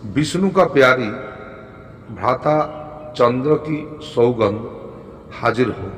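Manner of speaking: measured recital in short phrases; deliberate, falling to a close; mantra recitation. Shown as a demonstration. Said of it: "মন্ত্রটি হলো".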